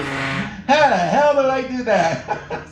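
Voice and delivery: slow, chuckling question; laughing. Real, not acted. Comedian amazed at his own trick, chuckling slowly. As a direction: chuckle through every word.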